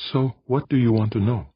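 impish. A narrator's reading. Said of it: "impishly pleased with herself".

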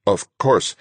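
mildly choked reply. A narrator's reading. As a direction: force out a short answer, a touch strained. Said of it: "I managed to choke out".

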